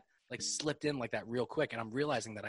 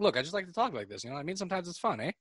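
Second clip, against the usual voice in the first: lively, higher-pitched Canadian-flavored excuse; Canadian-style eh; 7 semitones higher, faster than usual. Retold or imitated. Husband defending his habit to wife, Canadian-flavored pleading. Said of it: "Don't fucking say it like that".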